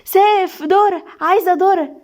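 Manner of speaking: put-on high, eager childish plea; childlike eagerness. A narrator's reading. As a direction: beg like an excited kid. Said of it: "لهفة زي الاطفال".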